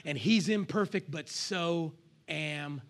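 hushed, slowed-down prayer; soft grateful prayer. Pretend. Wife hiding in the bathroom, praying softly to God. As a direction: pray it low and soft, like a whisper to God.

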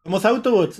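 squeaky robot claim, hands up; mock tiny robot voice; mini Transformers. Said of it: "son los".

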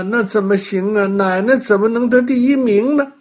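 put-on high, disbelieving child's protest; indignant little boy. A narrator's reading. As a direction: object like an outraged small boy. Boy's indignant thought, voiced.

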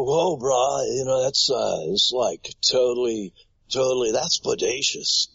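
a quick surfer dude impression. Shown as a demonstration. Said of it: "that kind of surfer dude".

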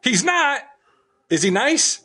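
high puppet voice. Acted.

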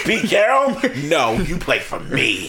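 laughing through the words; stifled giggles. Real, not acted. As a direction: hold back a giggle while talking. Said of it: "Trying not to laugh".

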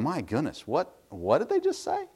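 a touch of retold disbelief; mock disbelief. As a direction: react in hushed shock at the radio. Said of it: "I'm sitting there going".

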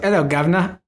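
an American's put-on Cockney; bad British accent. Explaining what Americans do for British, hammed-up fake Cockney. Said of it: "whenever an American does a British accent".

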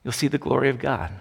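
Jesus calmly reassuring Mary and Martha. Retold or imitated. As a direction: gently comfort the sisters. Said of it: "Jesus just looks calmly at them".

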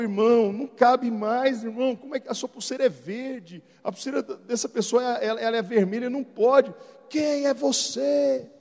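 shouted pastor's reply; retold usher. Arguing with the usher at the full venue, mock shout.

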